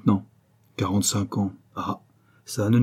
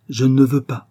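louder, higher, insistent repeat; forceful refusal; 4 semitones higher, 6 dB louder than usual. A narrator's reading. Father forbidding his daughter's love, forceful. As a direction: put your foot down.

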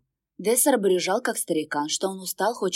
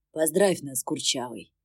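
lower, lightly voiced smirking demon; mild smirk; 5 semitones lower than usual. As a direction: tease the dog with a grin. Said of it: "усмехнулся демон". (демон с лёгкой усмешкой)

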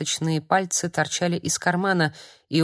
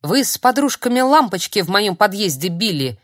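выкрикнул; 3 semitones higher, 4 dB louder than usual. Acted. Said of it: "выкрикнул он".

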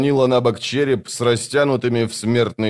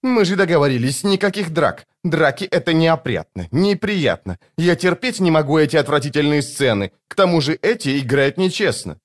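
high, prissy complaint; a youth, fastidious and annoyed; fussy brother; 6 semitones higher than usual. A narrator's reading. Brother scolding sister.

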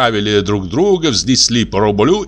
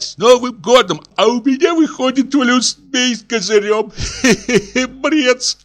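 garbled feverish greeting; 12 semitones higher than usual. Acted.

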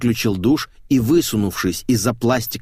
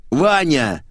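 shouted name; 5 semitones higher, 3 dB louder than usual. Acted. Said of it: "заорал Максим".

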